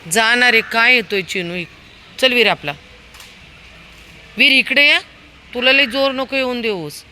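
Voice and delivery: loud scolding call. Real, not acted. Scolding and calling dog.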